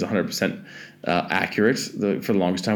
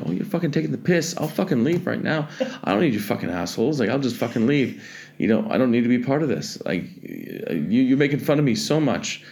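retold frustrated rant, pitched higher; 4 semitones higher than usual. Fed-up friend accusing speaker of making fun of him, frustrated. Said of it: "got really frustrated with me".

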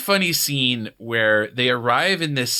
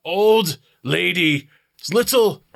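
slow, higher, word-by-word reading; halting reader; 5 semitones higher, 4 dB louder, slower than usual. Retold or imitated. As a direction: sound out each word like a beginner. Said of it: "It's, it's like".

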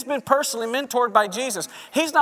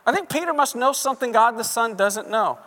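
swayed follower; 4 semitones higher than usual. Retold or imitated. Crowd member won over by Peter, dreamily convinced. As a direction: drift over to Peter's side. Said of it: "people are like".

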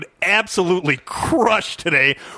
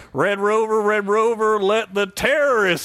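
a slightly raised, bad Texas accent; De Niro Texas accent; 4 semitones higher than usual. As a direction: lightly put on a Texas drawl, De Niro style. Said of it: "my bad Texas accent by De Niro".

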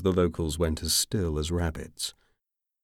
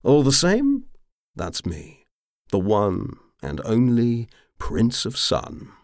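put-on drunk boast; 6 semitones higher, 5 dB louder, slower than usual. A narrator's reading.

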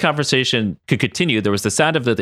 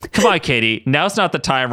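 mild, slightly raised plea; pleading; 5 semitones higher than usual. Acted. Ryan begs Katie to drop it, pleading. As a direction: plead with a touch of urgency. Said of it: "Ryan pleaded".

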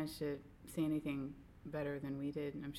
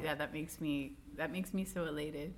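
sarcastic; 3 semitones lower than usual. Pretend. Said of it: "Holy cow".

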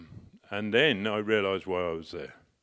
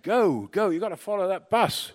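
mock shout, much higher and louder; excited retold shouting to chase the coach; urgent shout; 11 semitones higher, 7 dB louder than usual. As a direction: imitate them yelling to follow the bus. Passengers urging him to follow.

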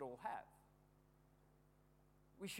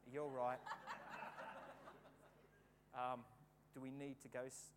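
compassionate; 6 semitones lower, 4 dB quieter than usual. Retold or imitated. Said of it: "My compassionate side came out".

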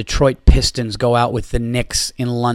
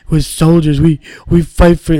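higher, louder hammed-up rallying shout; mock battle cry; 4 semitones higher, 6 dB louder than usual. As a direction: pump it up like a fired-up football captain. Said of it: "The Baltimore Ravens and Ray Lewis".

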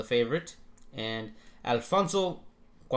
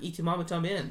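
Y Tu Mama Tambien, flat English vowels; mock anglicized Y Tu Mama Tambien; anglicized American accent; 6 semitones higher than usual. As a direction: say Tambien the plain American way, no Spanish. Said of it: "like, a white person".

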